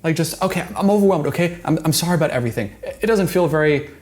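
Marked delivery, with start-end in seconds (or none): 0.4-2.7 brushing it off fast and impatient, as if overwhelmed; exasperated apology. Retold or imitated. Mimicking her self-serving apology to Clay, hurried and exasperated. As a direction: rattle the sorry off to get it over with. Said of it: "Which sounds pretty exasperated".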